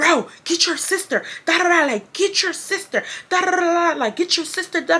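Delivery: put-on furious yelling, high and angry screaming. Recounting a phone call about someone's sister, retelling an angry scream. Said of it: "I'm screaming at the phone".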